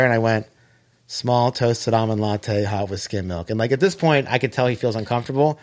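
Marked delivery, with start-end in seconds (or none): 1.1-3.5 slow, lower recital; unhurried, rote coffee order; deliberate repeat. Retold or imitated. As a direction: recite the order slowly, sinking at the end. Repeats rehearsed order when asked again.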